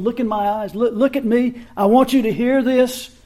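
a hint of a mother getting her child's eyes on her; firm, rising insistence to look and listen; mother calling children to attention. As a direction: parent holding the children's gaze before a warning. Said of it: "Sort of like a mother when she's".

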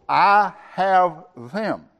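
high, slow and emphatic, I drawn out strongly; "I" punched high and held, then a slow fall; stress on I. Retold or imitated. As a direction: lean hard on "I", spacing the words out. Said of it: "the emphasis here is on God".

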